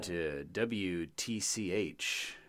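radio DJ voice. Pretend. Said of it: "like, a disc jockey".

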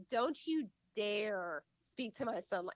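slow, measured warning; stern warning. Acted. Mother warning a rude child off her son, stern. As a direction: warn them off word by word.

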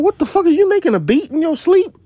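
high, loud, shocked yelp; imitating being startled; mock shocked. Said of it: "I'm like".

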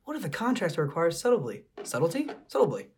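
lady voice. Acted. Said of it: "I don't know how to do a lady voice".

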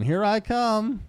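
high, loud, drawn-out catchphrase; mock game-hero cry, stretched slowly; Mario. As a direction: sing it out high like a cartoon hero. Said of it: "Classic Mario line".

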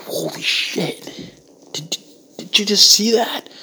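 breathless stunned whisper at a shark attack; awed whisper. Acted. Stunned onlooker whispering to his buddy about the shark, awed hush. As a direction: hush it like you can't believe your eyes.

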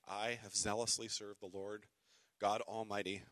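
weary, defeated retelling; tired repeat. Acted. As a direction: let the fight drain out of it. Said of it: "he probably sounded like".

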